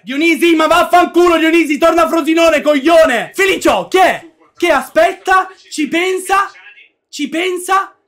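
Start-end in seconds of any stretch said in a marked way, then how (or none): 0.0-3.3 explosive italian cursing. Real, not acted. Insulting the player.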